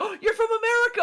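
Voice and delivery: high, fast, excited squeal; imitating an excited Japanese girl; mock excited girl. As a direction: gush like a thrilled fan. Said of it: "she gets all excited".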